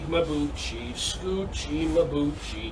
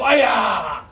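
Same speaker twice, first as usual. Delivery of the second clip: martial shout; 6 dB louder than usual. Shown as a demonstration.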